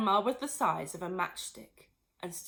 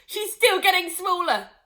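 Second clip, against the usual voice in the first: gleeful shout; 11 semitones higher, 11 dB louder than usual. Acted. Mister Cranky shouting gleefully about the shrinking grandma. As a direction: crow it with glee. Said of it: "shouted Mister Cranky gleefully".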